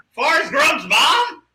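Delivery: high, slow mock wail of disbelief; hammed-up horrified realization; mock dismay. Actor realizes who co-star is.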